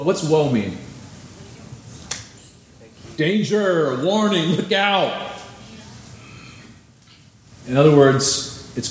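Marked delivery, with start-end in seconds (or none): 3.2-5.3 rising alarm. Acted. Preacher voices the warning rising.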